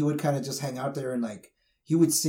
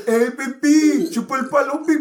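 woman catcalling; 10 semitones higher, 7 dB louder than usual. Retold or imitated. Friend imitating a girl who catcalled him in high school, high hammed-up catcall. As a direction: stretch it out like a brash woman calling from a car. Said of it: "She was like".

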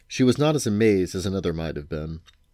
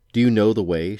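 eager question, louder; hopeful, urgent asking; 3 semitones higher, 6 dB louder than usual. Acted. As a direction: press him for an answer, eagerly. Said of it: "as eagerly as Prince Lear".

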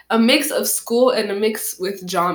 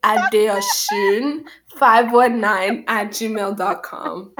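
each letter spelled out slowly; slow, deliberate spelling; much slower than usual. Shown as a demonstration. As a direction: spell it out slowly and clearly for the listener. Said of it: "Should I repeat it one more time for him?".

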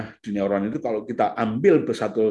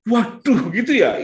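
surprised parent; 12 semitones higher, 7 dB louder, slower than usual. Retold or imitated. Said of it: "Ketika dijelaskan".

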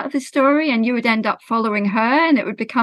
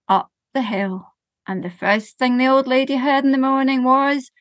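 slow, rhythmic storytelling voice; lilting children's storyteller; story narration; slower than usual. A narrator's reading. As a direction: tell it gently to a listening group. Tells a sensory story to audience.

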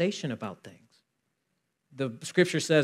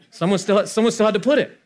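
emphatic retort; 6 semitones higher, 6 dB louder than usual. Retold or imitated. Pressing point in debate.

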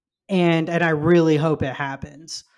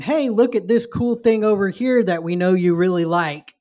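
mock-eager fan-service pitch; playfully overeager, mocking the pandering; mock enthusiasm; 3 semitones higher, 4 dB louder than usual. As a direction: show it off like a hammed-up sales pitch. Mimicking shallow, showy fan service.

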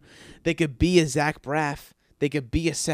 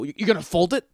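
incredulous improv line; 5 semitones higher, 5 dB louder than usual. Retold or imitated. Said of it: "I go".

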